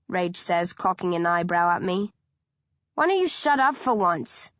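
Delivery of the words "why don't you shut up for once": higher, sharp snarl at a rival; angry teen snarl. A narrator's reading. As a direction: snap it at him like a threat. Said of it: "I snarl".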